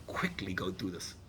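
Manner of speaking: urgent whisper; hushed, urgent whispered aside. Real, not acted. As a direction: breathe it out as a whisper.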